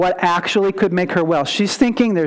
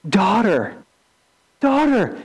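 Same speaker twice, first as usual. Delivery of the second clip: 1 tender. Retold or imitated. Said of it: "he speaks very tenderly to her".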